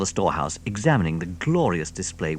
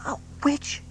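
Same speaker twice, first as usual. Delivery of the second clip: breathless question; 4 dB quieter than usual. Acted. Small fox voiced.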